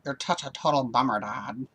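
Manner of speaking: imitating a whiny valley girl; a light mock valley girl whine. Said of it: "she has the valley girl voice".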